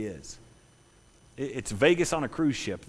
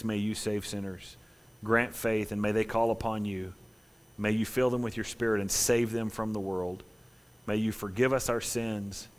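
closing prayer. Acted. Pastor leads closing prayer.

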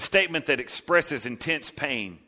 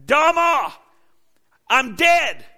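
much higher, loud anguished crying out; terrified wail; 10 semitones higher, 5 dB louder than usual. Acted. Isaiah crying out in the Lord's presence, terrified wail. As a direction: wail in terror before God. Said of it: "all he can cry is".

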